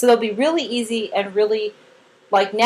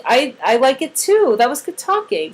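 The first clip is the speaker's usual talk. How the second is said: gentle praise; 3 semitones higher than usual. Shown as a demonstration. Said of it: "Or, like".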